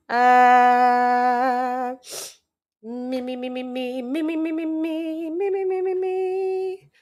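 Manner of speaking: mock vocal warm-up. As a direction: run up the scale like a singer warming up.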